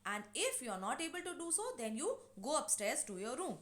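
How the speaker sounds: mild scolding. Retold or imitated. Mother ordering daughter to answer the neighbour, mild scolding. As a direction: lightly act out a mother's orders. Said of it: "she scolds her daughter".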